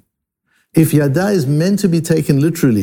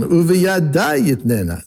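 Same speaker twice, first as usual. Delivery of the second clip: slow "Uveyada" with a lift, falling "yitnena"; emphasis on uveyada; 3 semitones higher than usual. Shown as a demonstration. Teacher emphasizing the noun before the verb, stress on "Uveyada". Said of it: "you are emphasizing the noun".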